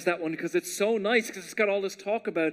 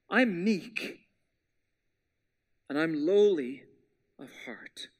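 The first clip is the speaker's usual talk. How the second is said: fading to a whisper; 4 semitones lower, slower than usual. Acted. Quoting Jesus' humble words.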